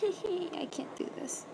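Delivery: breathy whisper, slow. Real, not acted. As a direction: whisper it to yourself. Laughing, overwhelmed, to herself.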